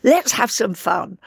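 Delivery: lightly imitated director's invitation; Joan Littlewood. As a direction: coax the actress to play. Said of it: "And she said".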